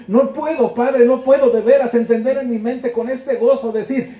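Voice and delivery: can hardly believe it, voice lifting with awe; joyful weeping prayer. Acted. Believer crying to God in disbelief, joyful and tearful. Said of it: "Es un llanto de alegría".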